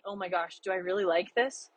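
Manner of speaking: hushed, doubting question to herself; murmured worry, rising at the end; quiet self-doubt. Retold or imitated. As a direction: ask it softly, unsure of yourself. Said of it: "it was that bad where I'm like".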